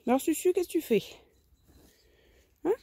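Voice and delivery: high, sing-song voice for a hen; pet talk. Real, not acted. Greeting her hen Susu in a high sing-song. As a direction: ask the hen what she's up to, sweetly.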